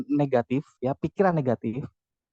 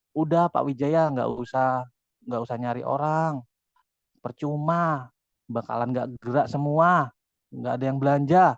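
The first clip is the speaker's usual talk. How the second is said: negative inner voice; 4 semitones lower than usual. Retold or imitated. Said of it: "si negatif akan ngomong".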